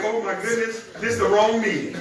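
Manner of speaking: amused mock reaction with a laugh; imitating laughing arrivals. Teasing ladies who walked into the meeting, imitating their laughter. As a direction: playfully mimic giggling latecomers. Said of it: "They came in laughing like".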